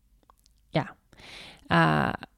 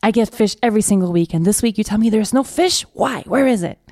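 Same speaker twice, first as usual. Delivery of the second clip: upset beggar; 4 semitones higher than usual. Retold or imitated. Beggar scolding the fisherman who brought no fish, mildly angry. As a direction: play the beggar's indignant outrage. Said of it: "And he gets upset".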